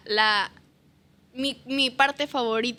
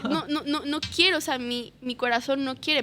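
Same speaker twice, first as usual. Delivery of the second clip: put-on childish refusal; 2 semitones higher than usual. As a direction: replay her stubborn plea like a kid. Retold pleading refusal to God.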